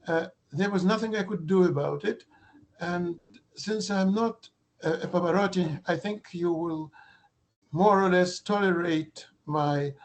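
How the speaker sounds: hoarse, strained lecture voice. Real, not acted. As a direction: talk on despite a hoarse throat. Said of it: "excuse me for my hoarse voice".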